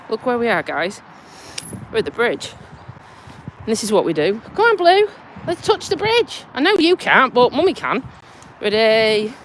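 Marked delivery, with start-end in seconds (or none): 4.5-9.3 coaxing the dog. Real, not acted. Talking to her dog.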